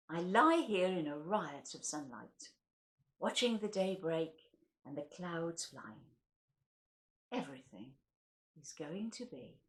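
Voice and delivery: measured, gentle poetry reading; poem recital. Acted. Reading a Derek Moore poem to listeners, gentle recital. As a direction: read it slowly, letting each line settle.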